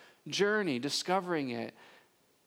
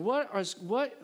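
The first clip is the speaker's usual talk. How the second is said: incredulous question; 4 semitones higher than usual. Retold or imitated. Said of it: "that tone of voice".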